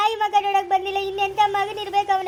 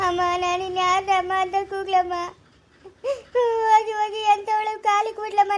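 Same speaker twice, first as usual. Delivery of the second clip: tearful lament. Acted. Daughter grieving over her dead mother, sobbing lament. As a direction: cry out to the dead mother, voice breaking.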